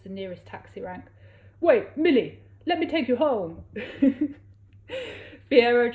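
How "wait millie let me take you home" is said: loud, higher call; raised urgent call; calling after her. A narrator's reading. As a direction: call out to stop her leaving. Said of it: "She ran out".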